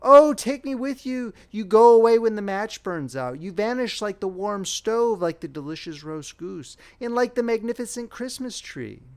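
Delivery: put-on high, loud pleading of a little girl; a frightened child crying out high and loud after her grandmother. A narrator's reading. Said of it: "cried the little one".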